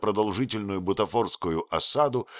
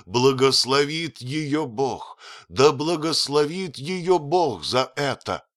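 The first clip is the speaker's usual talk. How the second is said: громко воскликнул; 7 semitones higher, 4 dB louder, slower than usual. Acted. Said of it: "громко воскликнул".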